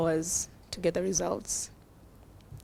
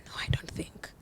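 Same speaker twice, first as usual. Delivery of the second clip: soft doubtful; 8 dB quieter than usual. Retold or imitated. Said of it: "she's like".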